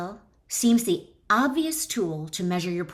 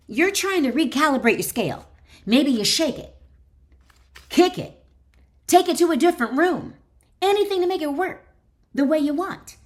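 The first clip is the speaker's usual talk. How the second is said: louder and higher, building into frantic fiddling with the scale; frantic escalation; 8 semitones higher, 6 dB louder than usual. Acted. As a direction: climb into a panicky rush as nothing works. Frantic scale-fixing scenario.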